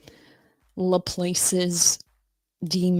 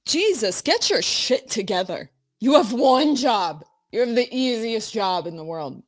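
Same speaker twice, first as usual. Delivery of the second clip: exasperated scolding; 3 semitones higher than usual. Real, not acted. Scolding the audio setup.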